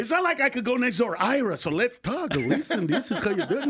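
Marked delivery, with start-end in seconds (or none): 1.2-3.7 lightly voiced Jewish neighbor; a hint of an old Jewish man; Jewish accent. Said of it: "I just did a Jewish guy".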